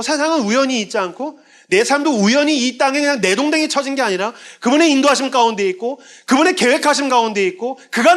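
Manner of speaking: fervent preaching. Real, not acted. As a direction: swell with awe at the gospel.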